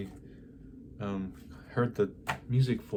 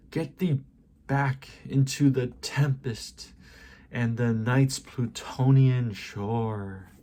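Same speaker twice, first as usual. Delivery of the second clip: forceful verse declamation, easing at line endings; impassioned poetry recitation. Acted. Poem's narrator banishing the raven, impassioned declamation. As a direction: order the bird away in theatrical verse.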